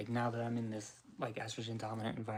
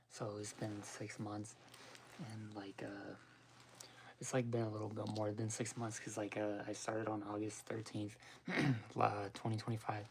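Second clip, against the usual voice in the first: smoker's rasp; 3 dB quieter than usual. Real, not acted. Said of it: "Oh, my voice is fucked up".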